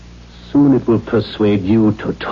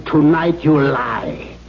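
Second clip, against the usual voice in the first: angry; slower than usual. Acted. Father interrogating frightened daughter.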